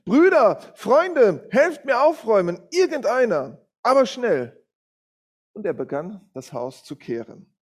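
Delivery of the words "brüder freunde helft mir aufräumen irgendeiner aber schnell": loud, high urgent call for help; calling out loudly. A narrator's reading. Man yells out the window for helpers, very loud and high. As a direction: call out to the street at full voice. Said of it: "und rief ganz laut".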